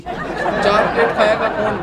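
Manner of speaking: laughing. Real, not acted. Absurd order, both crack up.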